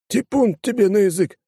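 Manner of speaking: growled. Acted. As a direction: bark it back at him. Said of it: "рыкнул депутат". (рявкнул в ответ)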